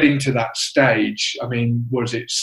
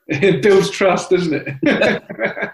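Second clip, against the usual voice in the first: laughing; 5 semitones higher, much slower than usual. Real, not acted. Laughs at Cockney accent remark.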